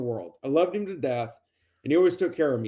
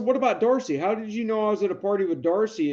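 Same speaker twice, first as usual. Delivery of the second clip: higher-pitched baffled challenge; retold disbelief; 6 semitones higher than usual. Nephew questions uncle's made-up story, lightly acted disbelief. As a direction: push back in a raised, puzzled voice.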